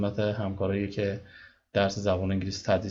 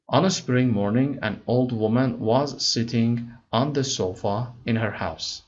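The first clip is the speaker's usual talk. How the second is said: slow, careful read-aloud of English text; slow story reading; much slower than usual. Acted. Teacher reading the English story to students slowly. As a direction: read each word slowly for learners.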